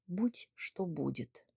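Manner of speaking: soft, slow, defeated; resigned. Acted. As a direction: give up under your breath. Narrator gives up hopelessly. (тихо и обречённо)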